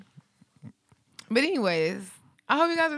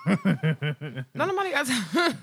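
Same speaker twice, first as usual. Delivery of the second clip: laughing; 3 semitones higher, 5 dB louder, much slower than usual. Real, not acted. Laughing quip.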